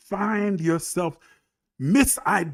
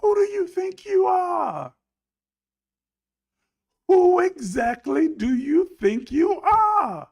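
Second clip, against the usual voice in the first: challenging shout; 10 semitones higher, 4 dB louder than usual. Real, not acted. Preacher challenging the pleading congregation, indignant high shout. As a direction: confront them at full voice.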